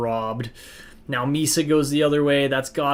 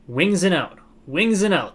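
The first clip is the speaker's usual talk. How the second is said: calling out; 6 semitones higher, 6 dB louder than usual. Real, not acted. Yelling instructions at players.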